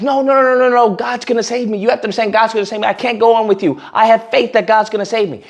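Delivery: lightly acted stubborn believer; mock refusal. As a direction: turn down help with pretend conviction. Man refuses boat in joke.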